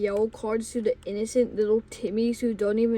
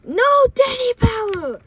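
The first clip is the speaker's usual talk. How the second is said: very high, loud holler; full-on yell; 11 semitones higher, 8 dB louder than usual. Retold or imitated. Bus driver banning the powder, full-on high yell. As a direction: bellow the ban at full pitch. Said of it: "She full on yelled".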